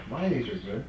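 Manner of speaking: talking with cheeks stuffed full; mouth full. Real, not acted. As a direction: speak around a mouthful of pecans. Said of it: "My mouth is so full".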